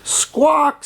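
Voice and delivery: high-pitched parrot call; one high bird-like squawk. A narrator's reading. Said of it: "says the parrot".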